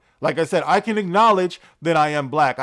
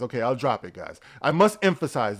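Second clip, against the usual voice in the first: usual speaking voice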